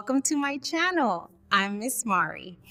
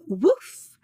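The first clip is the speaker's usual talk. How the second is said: one loud woof; dog bark; 5 dB louder than usual. Shown as a demonstration. Teacher asking children to bark along, loud dog woof. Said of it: "Bark like a dog".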